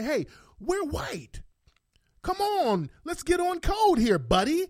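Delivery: high-pitched mock coaxing; imitating the woman. Woman pressing a fellow white officer for favors, mock coaxing. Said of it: "So she's trying to say".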